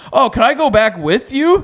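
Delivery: put-on innocent kid ask. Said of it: "And I'm like".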